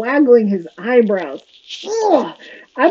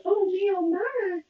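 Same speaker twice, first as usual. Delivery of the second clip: put-on flustered girl; 7 semitones higher, 8 dB quieter than usual. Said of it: "She's like".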